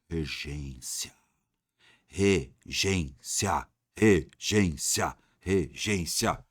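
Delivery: slow, low regência, repeated; slow drawn repeats. Shown as a demonstration. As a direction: drag out regência over and over. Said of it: "vamos lá, regência".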